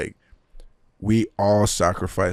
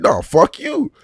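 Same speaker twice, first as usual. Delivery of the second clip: higher and louder, angry comeback; retold angry shout; 9 semitones higher, 10 dB louder, slower than usual. Firing back at the teammate, angry shout. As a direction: snap it back hard.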